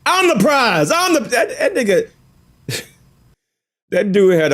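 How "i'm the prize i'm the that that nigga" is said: high, loud, bragging mock voice; mocking the guy. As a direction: crow it like a smug braggart. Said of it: "he projected".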